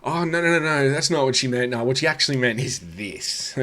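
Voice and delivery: high, loud parody of covering up; mocking the bit. Heckler parodying the comedian's classic bit, high mock protest. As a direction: mockingly imitate a flustered cover-up. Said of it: "this bit is the classic".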